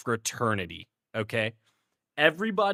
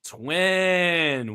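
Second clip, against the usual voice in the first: drawn-out imitated bro call; bro friend's greeting. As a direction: stretch out the word like a greeting bro. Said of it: "So he'll walk up, he's like".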